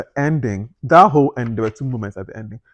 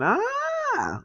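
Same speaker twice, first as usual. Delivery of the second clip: ah moment sound. Shown as a demonstration. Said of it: "more so than aha".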